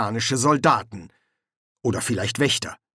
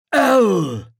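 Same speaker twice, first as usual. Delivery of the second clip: high, loud panicked blurt; 9 semitones higher, 7 dB louder than usual. A narrator's reading. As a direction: blurt the name with knees trembling. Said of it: "geriet Kolon in Panik".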